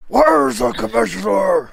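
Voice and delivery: squeaky high shout; silly high voice. Pretend. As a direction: shriek it in a cartoon voice. Mocking Batman in silly voice.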